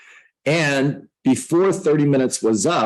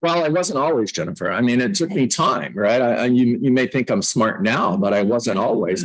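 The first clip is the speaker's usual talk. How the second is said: ordinary talk, nothing marked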